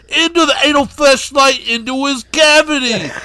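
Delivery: lightly voiced Dice Clay. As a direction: shoo him off like an annoyed comic.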